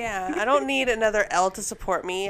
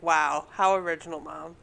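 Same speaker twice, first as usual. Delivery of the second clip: sarcastic wow; 5 semitones lower than usual. Retold or imitated. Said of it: "And I was like".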